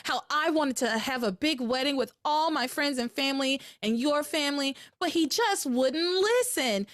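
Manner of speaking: high, dramatic damsel voice; mock Sheridan. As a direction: play the helpless fiancée. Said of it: "And then she says".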